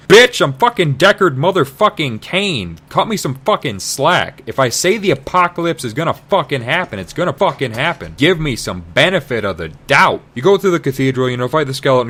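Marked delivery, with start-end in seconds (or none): 0.1-10.2 a hammed-up angry old man; indignant Cain. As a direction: tell her off as the famous Cain. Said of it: "Cain's like".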